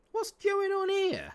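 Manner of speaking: high, slow exasperated cry; appalled at the defending; high-pitched disbelief at the screen; outraged squeal. Real, not acted. Outraged at parked bus.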